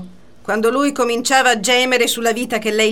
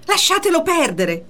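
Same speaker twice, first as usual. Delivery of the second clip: retold shout; 7 semitones higher than usual. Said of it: "urlò".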